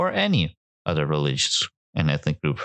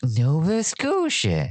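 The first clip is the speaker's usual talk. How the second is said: higher, drawn-out mock kid reading; slow, raised pitch as if decoding a word; kids reading aloud; 10 semitones higher, slower than usual. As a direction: lightly imitate a kid reading a strange name. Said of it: "those books and they're like".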